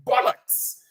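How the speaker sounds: mock British exclamation, almost voiceless; put-on British accent. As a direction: toss out a hammed-up British swear. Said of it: "the British say".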